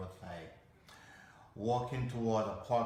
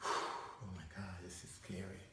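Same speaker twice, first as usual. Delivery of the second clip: acted backstage nerves, very soft; stage fright; 3 semitones lower, 11 dB quieter than usual. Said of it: "and you feel this thing".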